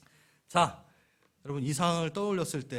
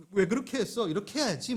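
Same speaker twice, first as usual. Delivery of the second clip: scolding; 5 semitones higher than usual. Acted. Teaching gift scolding waiter.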